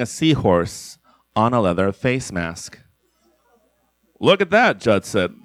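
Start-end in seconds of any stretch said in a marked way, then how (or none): 4.2-4.8 high, gleeful exclaim; delighted. Acted. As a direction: point it out with glee. Delighted at animals.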